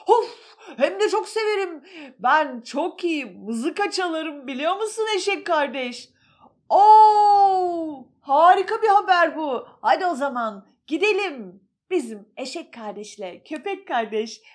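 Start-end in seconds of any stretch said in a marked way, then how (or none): 0.1-11.6 higher, louder excited dog; excited animal voices. Acted. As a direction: play the dog lighting up with joy. (yüksek ve coşkulu hayvan sesi)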